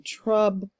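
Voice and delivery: "trouble" broken into "trub" and "ul", with a long gap; syllable by syllable. Shown as a demonstration. Teacher divides the word for students, syllable by syllable. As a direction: sound out "trub", pause, then "ul". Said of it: "show the syllable division".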